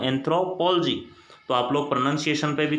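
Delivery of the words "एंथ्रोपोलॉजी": एंथ्रोपोलॉजी as "anthro-POL-ogy", "pol" stressed and "o" swallowed; correct pronunciation. Shown as a demonstration. Teacher modelling the right way for students, "anthro-POL-ogy". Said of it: "एक बार वापस बोल रहा हूँ".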